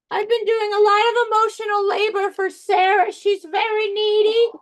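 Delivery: a hint of a put-upon pet; lightly voiced dog. Dog confiding in animal whisperer about owner, lightly voiced. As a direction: lightly voice a weary, complaining dog.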